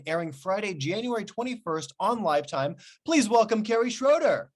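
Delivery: lively host intro with punched opening and close; show host introduction. Acted. Host welcomes viewers and introduces the actress guest, show-host presenting.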